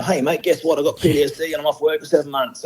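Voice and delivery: mock cheery announcement. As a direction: play it like cheerfully ringing round mates with gossip. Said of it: "So I said".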